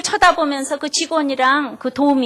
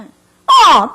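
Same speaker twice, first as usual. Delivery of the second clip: emphatic grunt; 4 semitones higher, 12 dB louder than usual. Retold or imitated. Husband's agreeing exclamation.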